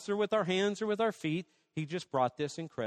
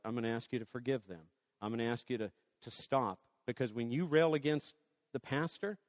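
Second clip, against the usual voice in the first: soft, lower, tender correction; gentle rebuke; 4 semitones lower, 5 dB quieter than usual. Retold or imitated. Pastor gently correcting a woman in the kitchen, soft and low. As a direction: speak softly to a wounded woman. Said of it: "And I said, "Sweetheart".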